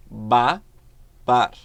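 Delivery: "Babar." said again loud, beats separated; syllable demo. Shown as a demonstration. Teacher repeating the example word. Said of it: "Olha o exemplo aqui".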